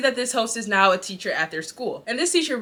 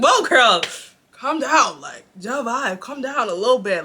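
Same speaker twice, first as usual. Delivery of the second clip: calm down; 2 semitones higher, 5 dB louder, slower than usual. Retold or imitated. Telling the teacher to calm down.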